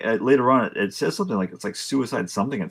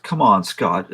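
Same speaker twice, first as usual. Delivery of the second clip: louder, mild re-enacted yell; exasperated call-out, only half shouted; retold yell; 5 dB louder, slower than usual. Retelling yelling at the friend who chose the movie, mild yell. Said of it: "I paused and I yelled".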